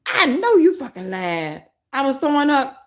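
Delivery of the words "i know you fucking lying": lightly put-on voice, mocking the comment; mock viewer voice. Streamer to her chat, mocking the viewer. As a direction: toss the chatter's words back at them.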